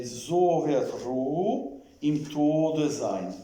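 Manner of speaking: slow, carefully spaced German text reading; measured model reading with pauses between phrases; slow dictation. Shown as a demonstration. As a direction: read it out slowly, word by word, with long vowels. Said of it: "say it slowly".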